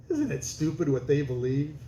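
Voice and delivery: smug sneer at native belief; sneering laugh-along to the congregation; a light mock of a smug preacher; mocking missionary. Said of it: "he goes".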